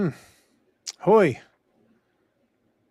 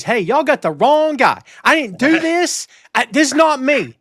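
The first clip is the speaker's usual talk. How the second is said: high, raised-voice mock protest; imagined screaming protest; 7 semitones higher, 4 dB louder than usual. Wrongly accused man to the court, mock screaming. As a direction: plead innocence in a mock yell, pitched up. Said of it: "I'll be screaming top of my lungs".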